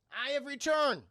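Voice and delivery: high, measured proclamation; mock-grand announcement. Streamer back after a power surge, mock-grand. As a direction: proclaim a comeback with mock ceremony.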